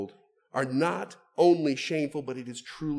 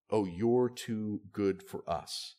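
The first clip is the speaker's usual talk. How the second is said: superior taunt; 5 semitones lower, slower than usual. Retold or imitated. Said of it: "a taunt from someone who thinks that they are superior".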